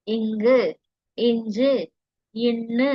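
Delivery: இங்கு, இஞ்சு eased gently through the nasal sound; soft nasal consonants. Shown as a demonstration. Teacher demonstrating mellinam like a gentle stroke, soft consonants. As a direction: let the nasal in இன்னு flow without pressing. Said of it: "மென்மையா அப்படியே சொல்றது".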